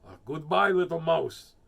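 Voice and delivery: loud hurried farewell; nervous goodbye. Acted. Fox fleeing the Gruffalo, loud nervous goodbye. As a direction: get out fast.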